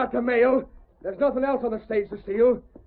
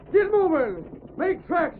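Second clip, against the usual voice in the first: driving horses; 4 semitones higher than usual. Acted. Driver urging his stage horses.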